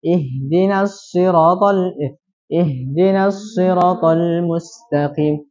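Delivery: "siratal" dengan ra pendek, lambat; mad ra hilang. Shown as a demonstration. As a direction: contoh salah tanpa panjang di ra. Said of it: "menghilangkan bacaan panjang di ra". (bacaan salah ra pendek)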